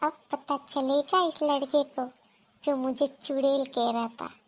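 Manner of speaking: very low, hushed, level inner voice; gloating aside. Acted. Girl privately plotting revenge on the boy, gloating quietly. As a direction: gloat secretly under the breath.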